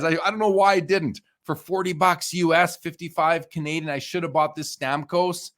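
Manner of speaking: high-pitched, worked-up regret; exasperated regret. Real, not acted. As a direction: still wound up over the missed buy. Regret over a missed card.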